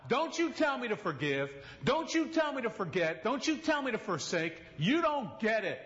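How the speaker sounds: high, intense voice of a hurt woman; confronting the preacher about forgiving, high and accusing; angry woman confronting. Retold or imitated. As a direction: throw it back at him, raw and accusing.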